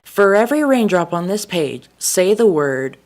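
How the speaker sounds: loud, slow instruction; bossy teacher. Retold or imitated. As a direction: spell out the task sternly.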